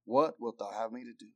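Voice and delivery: low, hushed question; humbled awe. Acted. Preacher reads Saul yielding to the Lord, humbled. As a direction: drop soft and low in surrender. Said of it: "trembling and astonished".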